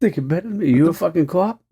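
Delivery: high-pitched Boston tough-guy challenge; Boston accent. Pretend. Boston bar loudmouth challenging someone, put-on Boston accent. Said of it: "Do you have a Boston accent?".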